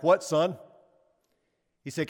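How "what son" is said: retold yell back, a bit louder. Dad answers son from his own bed, yelling back. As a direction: answer with a raised voice. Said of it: "I yell back".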